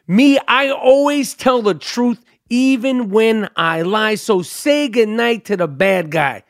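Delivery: slow, drawn-out gangster declaration; relished movie line. Acted. Host repeating his favorite Scarface line, slowly and with relish. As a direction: savor every word of the famous line.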